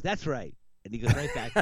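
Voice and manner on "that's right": higher quick sidekick echo. Retold or imitated. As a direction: parrot it like a hanger-on. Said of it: "the other guy goes".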